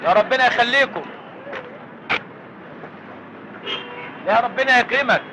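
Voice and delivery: singsong beggar chant, asking for alms; lightly whined begging call; beggar's plea. Acted. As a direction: plead like a street beggar calling out.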